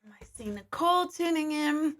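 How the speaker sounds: breathy whisper to herself. Real, not acted. Greeting viewers in the chat with a whisper. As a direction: whisper the name you see in the comments. Reading livestream comments.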